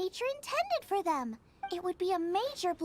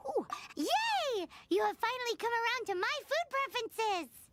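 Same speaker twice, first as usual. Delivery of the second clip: excited; 3 semitones higher than usual. Acted. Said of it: "I got all excited".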